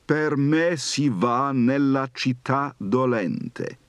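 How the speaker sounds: slow, measured Dante reading; poem recital. Shown as a demonstration. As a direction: recite each line slowly and solemnly. Reads Dante's Inferno aloud.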